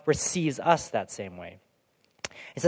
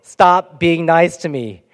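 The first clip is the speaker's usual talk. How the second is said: louder, half-hammed annoyed wicked person; mock wicked person; 2 semitones higher, 8 dB louder, slower than usual. Preacher imitating the wicked person, mock exasperated shout. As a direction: play the wicked one, fed up with kindness.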